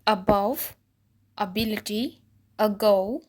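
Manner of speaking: above, ability, ago said loudly with a short schwa start; example words. Shown as a demonstration. Teacher reading example words with a short अ sound. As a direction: stress the clipped opening अ sound. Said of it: "जैसे कि इन words में देखिए".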